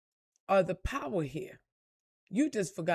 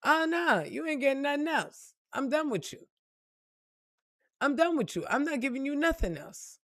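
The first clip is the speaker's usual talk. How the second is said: fed-up parent; 3 semitones higher than usual. Retold or imitated. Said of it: "As a parent, I'm looking at you sideways like".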